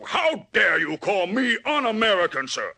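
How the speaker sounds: high, outraged bellow; blustering high indignant yell; indignant shout. Acted. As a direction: shout it as a personal insult. Villain outraged at accusation.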